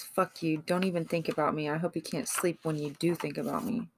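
hushed spoken-word kiss-off; bitter kiss-off. Acted. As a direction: spit it out quietly. Angry poem read softly.

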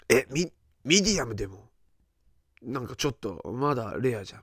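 hushed complaint. Retold or imitated. Diner complains steak still rare.

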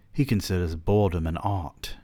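lightly put-on British accent. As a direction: give the man a touch of British. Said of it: "giving this man a British accent".

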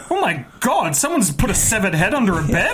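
high, laughing, horrified stranger; shocked. Retold or imitated. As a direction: gasp out the shock through laughter. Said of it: "they're like".

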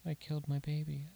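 high, horrified confession; mother's stunned realisation; despairing cry. Acted. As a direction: let it break into disbelief. Mother realises she stabbed son.

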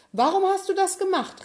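shouting high and loud in outrage. Acted. Miles yelling at bully Josh in the lunchroom, loud high shout. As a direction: yell it out across the cafeteria. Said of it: "rief Miles laut".

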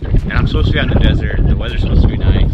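loud voice against the wind; shouting over wind. Real, not acted. On the windy lake, freezing.

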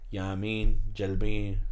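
"Ya mean, Jelbin" with words slightly stretched; drawn-out country pronunciation. Shown as a demonstration. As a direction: extend "Ya mean, Jelbin" a little, country style. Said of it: "I extend it".

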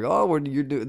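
smart-ass mock Southern lilt; attempted Southern accent. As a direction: needle them in a loose Southern accent. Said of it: "Southern attempted accent".

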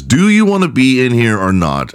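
a mildly pushy judge's question; too aggressive. Retold or imitated. Podcaster retelling the judge's question, mildly aggressive. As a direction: lean on it a bit hard, like a testy judge. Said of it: "I said it too aggressively".

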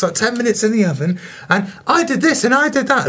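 high, rambling mock voice of his partner; mocking partner's chatter. Mimicking his partner recounting her day, high mock voice. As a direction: parody her endless day recap. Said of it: "let's hear about fucking".

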